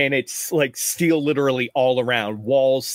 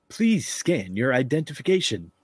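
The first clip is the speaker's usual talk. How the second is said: flat, softer robot voice; 4 dB quieter than usual. Acted. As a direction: read it like a machine. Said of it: "a robotic voice".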